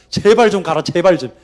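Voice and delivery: 애원하듯 설득하는 흉내; 가 달라고 가볍게 사정하듯; 빌면서 설득. Acted. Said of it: "하나님 막 빌면서 설득을 해가지고". (제발 들어 달라고 빌듯이)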